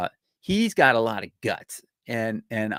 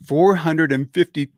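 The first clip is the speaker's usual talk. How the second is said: astonished; 5 semitones higher, 6 dB louder than usual. Real, not acted. Stunned by a huge number.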